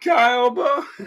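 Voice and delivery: high, stretched mock scream, cut short. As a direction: mock-scream it, chopping off "Busch!". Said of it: "perfectly cut scream right there".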